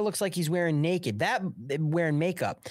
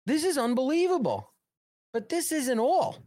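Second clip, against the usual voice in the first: hyped up; 9 semitones higher than usual. Real, not acted. Hyping the next reveal.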